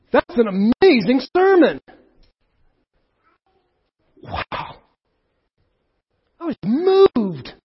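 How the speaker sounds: a breathless wow, then slow high awe; hushed wonder, drawn out; awed listener. Pretend. Synagogue listener reacting to the sermon, slow awed voice.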